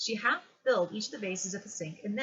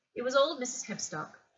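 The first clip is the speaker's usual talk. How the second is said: usual speaking voice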